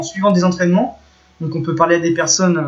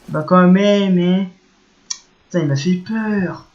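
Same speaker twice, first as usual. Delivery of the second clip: nervous laughter; slower than usual. Real, not acted.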